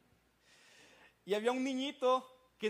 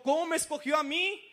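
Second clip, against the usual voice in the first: asustado, incrédulo; 4 semitones higher, 4 dB louder than usual. Retold or imitated. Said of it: "como todo asustado diciendo".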